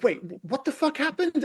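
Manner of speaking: high, baffled disbelief. Retold or imitated. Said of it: "you're just like".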